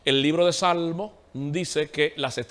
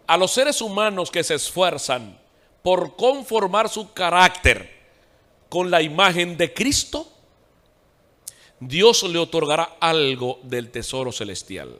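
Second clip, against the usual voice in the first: dictado lento, con pausas entre frases; lectura despacio; 2 semitones higher, 4 dB louder, slower than usual. Real, not acted. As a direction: lee despacio para que tomen cada palabra. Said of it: "Lo voy a decir despacio". (lectura pausada, marcando cada palabra)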